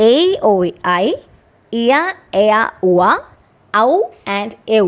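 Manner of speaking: എ, ഓയ്, ഐ recited in small groups like a memory list; diphthong recital. Shown as a demonstration. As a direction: recite the gliding vowels from എ to ഔ in a steady rhythm. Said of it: "ഇതൊരു പാട്ട് പോലെ പഠിച്ചു വെച്ചാൽ".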